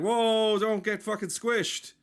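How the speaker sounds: high, loud mock panic; shrieking at an insect on the road; high alarmed shout. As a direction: yelp a warning at the bug.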